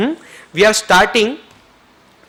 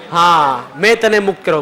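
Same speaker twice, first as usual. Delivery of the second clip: firmly raised release; loud release. Shown as a demonstration. Partner grants forgiveness to the group, loudly. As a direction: announce the forgiveness to the room. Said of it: "મોટેથી બોલો બધા".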